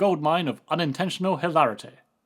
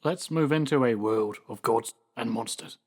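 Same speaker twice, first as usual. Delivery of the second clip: low, grand horror-trailer voice; dramatic movie quote voice; 5 semitones lower than usual. Acted. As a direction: intone it like a gothic villain. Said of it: "Keep the Bride of Frankenstein's quotes out your fucking mouth".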